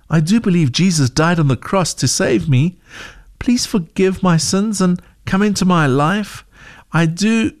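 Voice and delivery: a hint of a child pleading with God; praying girl. Zoe prays for forgiveness.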